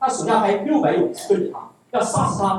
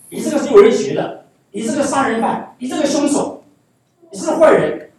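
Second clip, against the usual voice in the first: mock cursing; 3 semitones higher, 3 dB louder than usual. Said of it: "他开始咒骂大卫".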